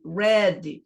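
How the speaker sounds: "Read" said as red with a short e; "Read" rhymes with red, the e sound stressed; past tense read. Shown as a demonstration. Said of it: "você estressa ele com um acento que não existe".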